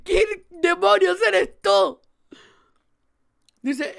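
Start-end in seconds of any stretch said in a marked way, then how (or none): 0.0-2.0 character demand. Acted.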